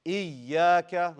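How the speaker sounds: "إياك" loud, punched on the doubled y; nabr. Shown as a demonstration. Teacher models for class to repeat, emphatic nabr. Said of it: "do the nabr".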